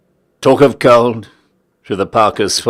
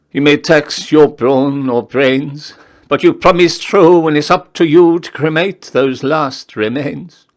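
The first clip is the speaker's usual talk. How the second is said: higher, insistent voice of the dead man; lightly voiced corpse holding him to his promise; corpse's voice; 7 semitones higher, 3 dB louder than usual. A narrator's reading. The corpse reminds the narrator of his promise, lightly voiced and insistent. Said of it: "it seemed to say".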